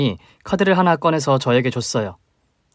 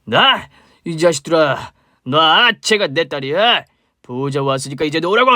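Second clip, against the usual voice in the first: put-on drunk father bellowing at the police; father shouting at the police that she is his daughter; sudden roar; 3 semitones higher, 4 dB louder than usual. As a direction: yell it out, furious and slurred. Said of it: "버럭 소리쳤습니다".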